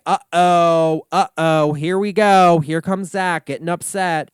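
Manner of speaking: loud sing-song mock alarm; teasing uh-oh. Narrating Zach's temper for viewers, loud teasing uh-oh. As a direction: tease the coming tantrum. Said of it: "it's like".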